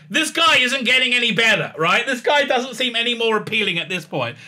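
incredulous. Real, not acted. Reviewer's incredulous comment.

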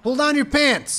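high, loud snapped yell at normal pace; punchy repeated yell; quick shout. Real, not acted. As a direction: fire it off straight. Hype yelling at healer.

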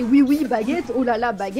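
playful "oui, oui, baguette"; cheerful cliché French phrases; exaggerated French. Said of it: "We say".

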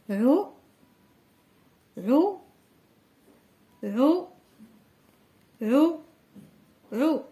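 عو called out clearly again and again; repeating the syllable. Shown as a demonstration. Teacher drilling the syllable عو with young pupils. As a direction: drill عو for the class to echo. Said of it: "نقراو هذا الحرف هذا اللي كتبناه".

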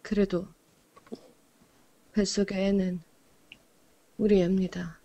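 put-on tense movie line in Yanbian accent. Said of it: "연변 말투".

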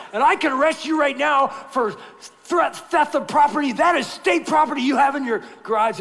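hammed-up stern officer; mock stern sheriff. Sheriff threatens arrest, acted.

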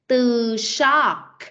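"shock" ending in a crisp K sound. Shown as a demonstration. Teacher models "shock" for the class with a K ending. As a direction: say "shock" with a clear final K. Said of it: "có âm K".

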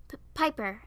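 timid, tripping on the name; small stuttered interjection; nervous stutter. Acted. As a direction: stammer on the first sound. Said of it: "I stuttered".

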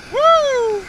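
high, loud startled oh; surprised oh. Real, not acted. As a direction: gasp it out in delight. Surprised by the catch.

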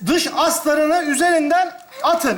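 slow, deliberate read-out of each step; reading instructions aloud. Acted. Man reading tent manual to his friend, slow deliberate read-out. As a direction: read it out slowly, word by word. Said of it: "ben okuyacağım".

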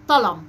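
طلم with a front T replacing the qaf; child's misarticulation. Shown as a demonstration. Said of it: "كلمة زي قلم بينطقها". (نطق ألدغ، الطاء بدل القاف)

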